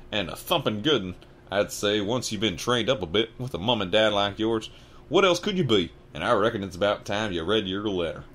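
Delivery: indignant half-giant scolding; giant Hagrid. Acted. Hagrid rounding on the Dursleys, loud and indignant.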